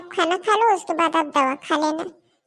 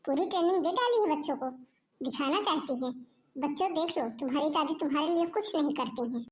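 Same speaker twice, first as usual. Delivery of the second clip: bitter muttering; 8 dB quieter than usual. Acted. Grandmother complaining to herself.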